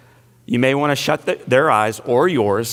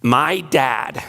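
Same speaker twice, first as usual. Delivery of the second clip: breathless little whisper of dread. Retold or imitated. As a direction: whisper it like a scared child. Child's terrified thought, whispered.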